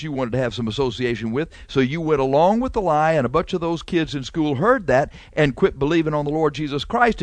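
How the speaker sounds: a light take on Jesus calling out the liar; Jesus rebuking at judgment. Retold or imitated. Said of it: "and he's gonna say".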